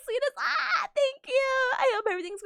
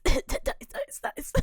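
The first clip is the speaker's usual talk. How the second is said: laughing; much slower than usual. Real, not acted. Laughing after the cry.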